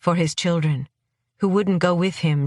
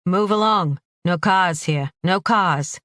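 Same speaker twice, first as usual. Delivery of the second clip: shouted orders; 2 semitones higher than usual. Acted. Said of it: "a man shouted in English".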